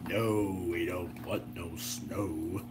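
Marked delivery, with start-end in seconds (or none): none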